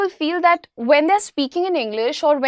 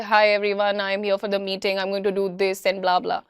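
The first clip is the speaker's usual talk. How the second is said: flat monotone meeting intro, low and even; monotonous; 5 semitones lower than usual. Shown as a demonstration. Boss showing the team a monotonous greeting, dull drone. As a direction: drone it out like a bored speaker.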